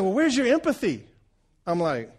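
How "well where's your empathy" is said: high, loud mock-accusing wife; wife's challenge. Wife mocks her husband's test score, high and accusing. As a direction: needle him about empathy. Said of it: "She's like".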